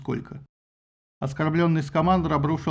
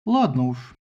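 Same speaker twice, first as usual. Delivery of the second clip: satisfied; 4 semitones lower, slower than usual. Acted. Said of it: "удовлетворённо сказала Гера".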